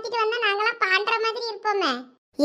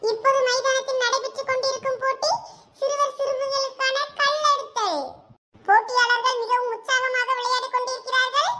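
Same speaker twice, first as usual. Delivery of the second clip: higher-pitched formal sports-day announcement; event announcer; 7 semitones higher than usual. Acted. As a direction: announce the races formally over the ground. (விளையாட்டுப் போட்டி அறிவிப்பாளர் குரல்)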